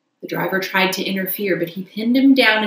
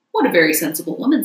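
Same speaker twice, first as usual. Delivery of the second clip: quick, louder hearty approval; hearty gentleman; 5 dB louder, much faster than usual. Acted. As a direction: rattle off hearty praise.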